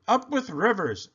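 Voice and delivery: high hooted cheer; delighted duckbill chant; hooting. A narrator's reading. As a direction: hoot it happily up high. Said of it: "And they hooted".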